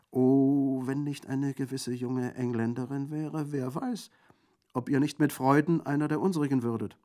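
high, loud orator's voice; theatrical bandit theologian. A narrator's reading. Theologian bandit praising the outlaw's freedom, theatrical. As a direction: extol it with relish.

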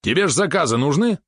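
high, pressing question; indignant. A narrator's reading. Valeron presses his master about orders, high indignation. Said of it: "возмутился Валерон".

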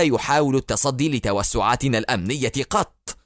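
scornful, rising anger; mock their fear and scold them; angry. Barak angrily scolding the pilot for fearing the Egyptians. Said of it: "قاطعه في غضب".

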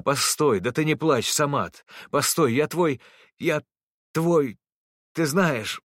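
a father begging his son to stop; desperate pleading. A narrator's reading. Father running after his son Samat, desperately pleading.

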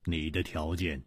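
hushed, halting, baffled questions; stunned disbelief. A narrator's reading. Song Gang learns only a letter is wanted, quietly stunned. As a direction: repeat it softly, unable to believe. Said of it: "宋刚不禁愣了愣".

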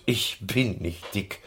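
mildly huffy, restrained protest; indignant snort. A narrator's reading. Schoko protesting to the others, mildly indignant. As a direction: object with a touch of anger. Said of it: "Schoko prustete wütend".

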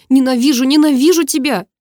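put-on high, loud girl's shout of hate; screaming. A narrator's reading. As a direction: yell it in rage. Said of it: "прокричала она". (громко, высоким криком, с ненавистью)

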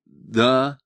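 hint of a husky phone answer; husky, just-woken yes; hoarse. A narrator's reading. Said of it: "сказала Диана хрипло".

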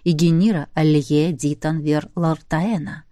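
low, hypnotic and persuasive. Acted. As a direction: cast a spell with the voice. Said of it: "постарался придать гипнотическую силу".

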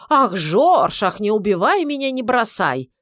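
a hint of a mock whiny wife; spitefully ape her pleading; mocking mimicry. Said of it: "зло передразнил он".

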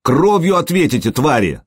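high-pitched threat, mildly furious; outraged wail. A narrator's reading. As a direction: cry out vengeance without much volume. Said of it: "завопил он". (гневный выкрик высоким голосом)

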